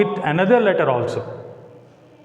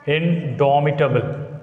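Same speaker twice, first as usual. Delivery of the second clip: Indomitable with a clear stressed syllable; stress demo. Shown as a demonstration. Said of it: "This is the word".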